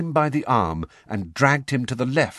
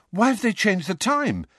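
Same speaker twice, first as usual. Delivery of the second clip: mildly breathless; 11 semitones higher than usual. A narrator's reading. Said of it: "Harry said breathlessly".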